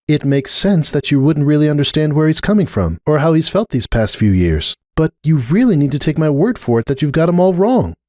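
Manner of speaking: a lightly voiced earnest unicorn pleading her case; Starlight. A narrator's reading. Starlight pressing her point with Cupcake, earnest.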